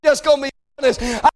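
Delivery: demonstrating a pleading prayer to God; modelling an earnest cry to God; acted prayer. Shown as a demonstration. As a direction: pray it out like a desperate man at the altar. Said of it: "we need you to say".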